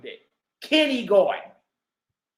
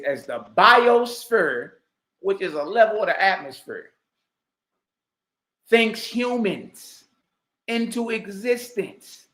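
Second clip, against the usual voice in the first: mocking quote. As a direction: drag each word out to mock him. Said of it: "This boy says".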